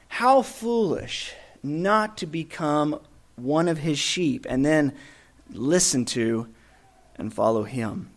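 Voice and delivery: soft appeal. Acted. Preacher pleading with listeners to follow him, hushed. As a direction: draw them in quietly.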